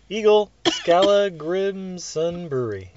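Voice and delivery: slowly, each word spelled out carefully; slow careful reread. Real, not acted. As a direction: read the name again, carefully and slowly.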